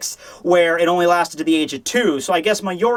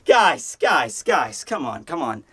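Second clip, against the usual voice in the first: exasperated plea; 5 semitones lower, slower than usual. Retold or imitated. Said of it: "I'm like".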